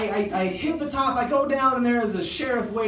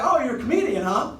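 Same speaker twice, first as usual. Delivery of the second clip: teasing cop; 5 semitones higher, 3 dB louder than usual. Retold or imitated. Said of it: "And he was like".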